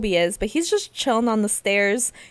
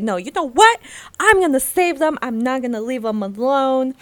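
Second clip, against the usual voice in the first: determined; 3 semitones higher, 5 dB louder than usual. Retold or imitated. Friend retells his resolve to save them, determined. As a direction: declare it firmly, easing off at the end.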